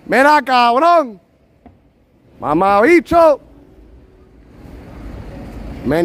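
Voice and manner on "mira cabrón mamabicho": high, loud, drawn-out curse; stretched-out high yell in Spanish; shouted Spanish cursing. Shown as a demonstration. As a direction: holler curses slowly down the street. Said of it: "I should curse in Spanish".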